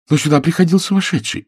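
put-on a breathless girl blurting her news; daughter pleading. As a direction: daughter telling father of the madman. Daughter voiced in story.

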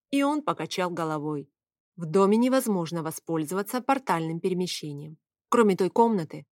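usual speaking voice

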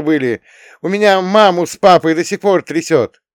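put-on high, loud shouting girl; furious tirade. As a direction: yell every accusation at him. Girl yells at boyfriend.

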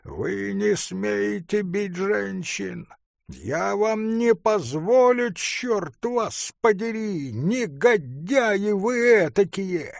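furious artist, high and slow; outraged protest, hammered out; angry shout. A narrator's reading. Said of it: "послышался голос художника". (гневный крик, выше и медленнее)

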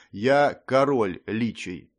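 slow, lifeless undead voice. Acted. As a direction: announce it with no life at all. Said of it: "объявил гость прежним безжизненным тоном".

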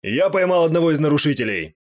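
loud shout. Acted. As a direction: shout it out to the room. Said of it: "громко крикнул голосом Носа". (громкий крик чужим голосом)

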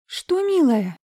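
высоко и ласково-старушечьи; отзовись как добрая бабушка; старушка. Acted. Старушка отвечает Марине. (уборщица отвечает Марине, высоко)

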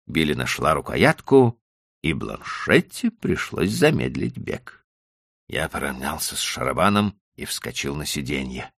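usual speaking voice

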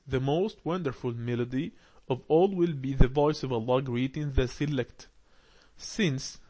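slow, careful reading aloud to a class; slow text reading. Acted. Teacher reads the lesson text aloud slowly. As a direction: read each phrase slowly for learners.

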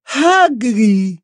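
high, throaty French exclamation; guttural French accent. Acted. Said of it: "exclamó con voz gutural".

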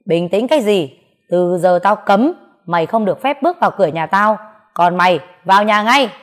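loud, heated command; father orders the man out and daughter inside, angry. Acted. Father shouts, banishes the man.

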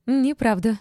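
high, loud denial; furious yell. A narrator's reading. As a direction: yell the contradiction straight out. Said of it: "заорала Ольга".

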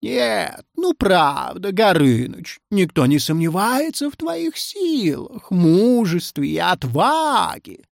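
gently conciliatory; sighing reassurance. A narrator's reading. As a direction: soothe a bruised ego with a sigh. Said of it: "вздохнул Пушкин".

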